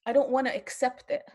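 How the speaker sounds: first take, voice lifted with feeling; emotional. Real, not acted. Grandmother resisting what she sees, emotional plea. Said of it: "I'm getting so emotional".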